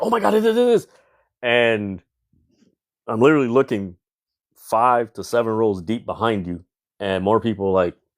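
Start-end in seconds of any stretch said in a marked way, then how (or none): 0.0-0.9 very high, overdone inflection, ringside commentator style. Mocking wrestling commentary as overkill on inflection: imitating Michael Cole's overdone commentary. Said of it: "this more particular Michael Cole".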